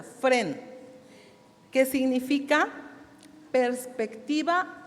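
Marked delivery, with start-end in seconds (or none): 0.0-0.6 fren as spelt, accented E, falling; stress on E of fren. Shown as a demonstration. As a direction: lean on the E in fren, as it sounds. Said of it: "así como suena".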